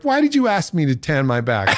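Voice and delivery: laughing mock accusation. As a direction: whine the complaint half laughing.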